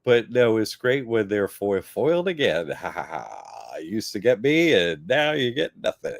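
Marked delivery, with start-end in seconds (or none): 2.7-6.2 mock gloating. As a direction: gloat over the creditors. Gloating at foiled creditors.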